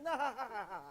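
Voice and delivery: a mock hearty laugh; imitated laughing. Father laughing at his toddler, mock hearty laugh.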